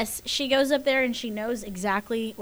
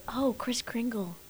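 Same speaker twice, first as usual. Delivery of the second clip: whispering; 7 dB quieter, slower than usual. Real, not acted. Muses on a joke name.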